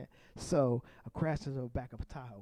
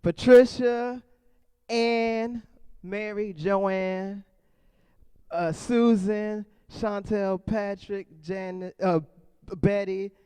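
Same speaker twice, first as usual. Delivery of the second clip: rapid-fire roll call; 4 semitones higher, 6 dB louder, much slower than usual. Real, not acted. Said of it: "I got this, y'all".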